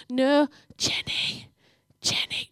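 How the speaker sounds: mock-timid, drawn-out calling of a name; gentle wake-up call. Shown as a demonstration. Showing how not to wake Jenny, gently calling her. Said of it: "none of that".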